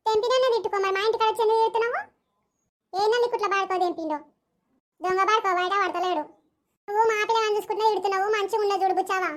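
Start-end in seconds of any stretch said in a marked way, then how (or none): 0.1-2.0 heated quarrel shout-back; angry retort. Acted. Neighbours quarrelling. 6.9-9.3 fast, heated threat; quarrelling mother defending her boy; angry warning. Acted. Neighbours quarrelling.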